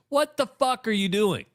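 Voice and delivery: high-pitched imitated curse at a player; mock angry yell. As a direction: mimic the coach yelling in disbelief. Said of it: "He goes".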